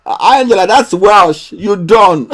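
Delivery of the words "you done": mock Scottish. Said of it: "Or, or, or Scottish".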